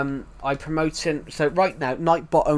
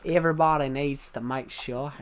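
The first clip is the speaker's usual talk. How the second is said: attempted Australian accent; amateur Aussie accent. Shown as a demonstration. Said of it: "I can do it better".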